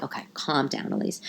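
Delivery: soft, soothing aside; imitated aunt's hushed reassurance; calming aunt. Aunt soothing her upset niece.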